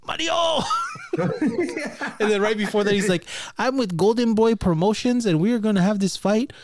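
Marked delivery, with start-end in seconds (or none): 0.1-0.6 put-on high Mexican-accented call; hammed-up, high Mexican-accent shout; mock Mexican accent. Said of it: "super Mexican when he started talking to Mario Lopez". 3.6-6.5 high, loud mock boasting; hammed-up fighter's challenge, pitched up; boxer impression. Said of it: "that's really what he sounded like".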